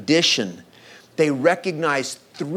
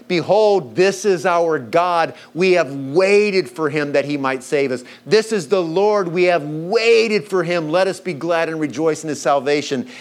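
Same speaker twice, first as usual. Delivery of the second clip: proclaiming prophecy. Acted.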